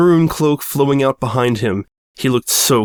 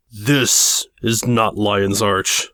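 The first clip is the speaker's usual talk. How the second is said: booming villain voice; slower than usual. Acted. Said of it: "his voice boomed".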